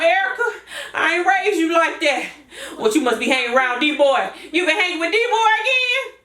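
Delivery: put-on older, rougher mama voice; grumpy older mama refusing to babysit; Mom. Mama complaining to Erica about watching the babies. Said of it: "making myself sound older".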